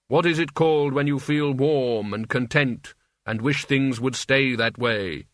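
lightly voiced otherworldly figure, pondering; Death. Death asking the cafe owner about a feeling, pondering. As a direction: ponder it, drawing out the end slowly.

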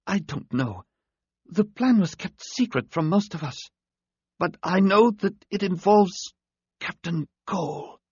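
high, thin alien voice, fading strength; a wounded alien forcing words out; dying alien voice. A narrator's reading.

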